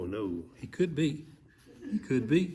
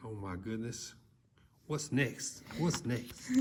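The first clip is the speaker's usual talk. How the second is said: hushed; 3 semitones lower, 10 dB quieter, slower than usual. Real, not acted. Listener hushed and worried.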